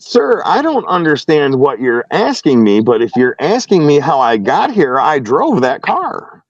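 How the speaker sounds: retold testy explanation, spelled out for the listener; mildly exasperated. Driver answering officer's repeated question, mildly exasperated. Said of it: "now I'm a little upset".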